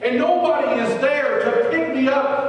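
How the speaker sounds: high, loud sermon climax; preaching at full force. Acted. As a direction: drive it home to the congregation.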